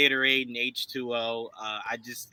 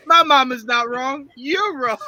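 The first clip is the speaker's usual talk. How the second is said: much higher, louder goofy whine; higher hammed-up Waterboy voice; Waterboy impression; 11 semitones higher, 6 dB louder than usual. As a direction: squeal it like Bobby Boucher. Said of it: "Mama's wrong again".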